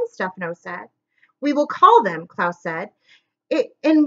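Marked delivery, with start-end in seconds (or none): 1.4-2.3 firm tone. Acted. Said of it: "in what he hoped was a firm tone".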